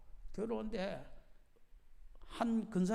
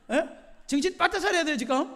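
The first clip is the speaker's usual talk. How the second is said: raised, higher-pitched admonition; wake-up warning; 7 semitones higher, 8 dB louder than usual. Real, not acted. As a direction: jolt the dozing listeners to attention. Warning dozing listeners to pay attention.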